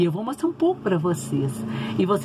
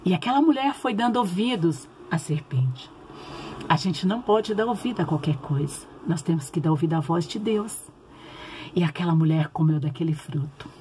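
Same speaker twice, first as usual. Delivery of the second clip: put-on gentle storytelling for kids; reading to children. (contação de história bíblica para crianças)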